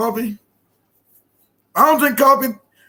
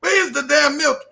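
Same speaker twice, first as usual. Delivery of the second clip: imitating a mom yelling, higher; mock angry mom; 4 semitones higher than usual. Mom yelling at Katie about the milk, mock angry. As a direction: mom scolding her daughter over the milk, shouting.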